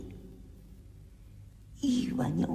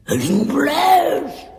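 grito de alarma; 14 dB louder, much slower than usual. Acted. Alarma al ver al inglés.

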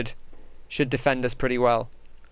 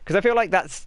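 normal talking voice

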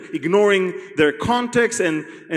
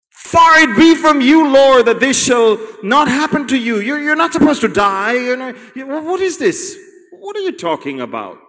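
alarmed protest; 7 semitones higher, 4 dB louder than usual. Acted. Peter protesting Jesus' death.

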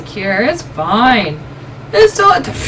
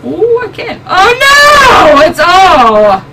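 real alarmed cry, much higher; panicked shout; 6 semitones higher, 6 dB louder, slower than usual. Real, not acted. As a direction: yelp in sudden panic. Game goes wrong suddenly.

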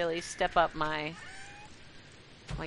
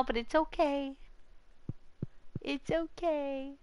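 high, soft coo; soothing; 6 semitones higher, 7 dB quieter than usual. Pretend. Streamer excusing salt that isn't salty, cooing reassurance. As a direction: comfort it gently in a small, high voice. Consoling in a cutesy voice.

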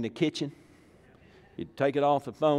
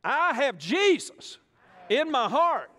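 a high, slow, wavering squeak of the timid confession; sing-song the creed like a shy child, high and drawn out; lightly mocking small voice; 12 semitones higher, slower than usual. Preacher leads the crowd in a high mocking sing-song. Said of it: "Say this with me".

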